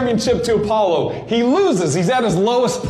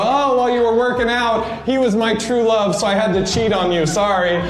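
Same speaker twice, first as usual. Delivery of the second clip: put-on breezy cheating girlfriend; 3 semitones higher than usual. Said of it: "she would be over there with Apollo and go".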